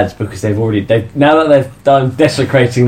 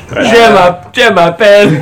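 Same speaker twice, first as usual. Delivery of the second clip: put-on African accent; 5 semitones higher, 3 dB louder, slower than usual. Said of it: "In that strong African accent".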